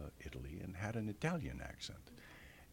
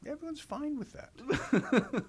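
laughing; 8 dB louder, slower than usual. Real, not acted. Laughing punchline about absurd plot.

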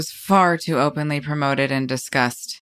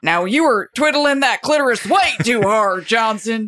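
lightly voiced coach, higher; football coach; 4 semitones higher than usual. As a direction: scold a player like a coach. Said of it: "the football coach was asked to teach".

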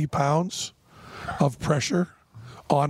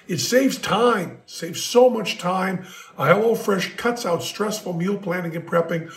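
ad read; 3 semitones higher than usual. Acted. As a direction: sell the meal kit with punchy emphasis. Sponsor ad read.

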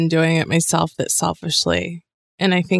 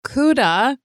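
high, slow singsong greeting; up an octave; 8 semitones higher, slower than usual. Pretend. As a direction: lift it a full octave. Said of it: "I usually don't go up an octave".

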